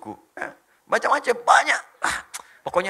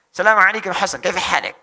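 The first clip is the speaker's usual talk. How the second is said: loud put-on Arabic accent; hearty mimicked Arabic greeting; 3 semitones higher, 9 dB louder than usual. Shown as a demonstration. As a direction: greet a friend like an Arab native. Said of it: "bisa bahasa Arab".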